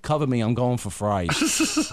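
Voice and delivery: slow, low, deadpan command; understated mock combat call; mock soldier. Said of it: "it was like".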